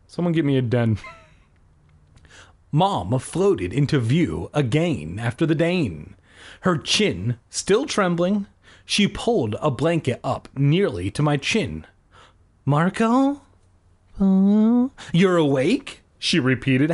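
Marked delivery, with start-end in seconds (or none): 2.7-11.8 measured audiobook read; story narration. A narrator's reading. Reads the story aloud. 12.7-16.0 high, questioning mom voice; anxious mom. A narrator's reading. Voices the worried mother.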